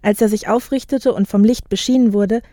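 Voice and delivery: measured audiobook reading; composed literary narrator; story narration. A narrator's reading. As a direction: tell it clearly, phrase by phrase. Reads novel excerpt aloud.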